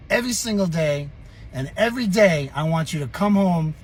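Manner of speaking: lightly voiced French Canadian father; French Canadian accent. Father sentences son to summer work, French Canadian accent. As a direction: imitate dad laying down terms in a French Canadian accent. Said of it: "with his little French Canadian accent".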